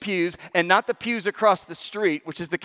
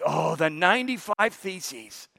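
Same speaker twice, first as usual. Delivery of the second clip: mocking repeat; 3 dB quieter, slower than usual. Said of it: "Someone yelled".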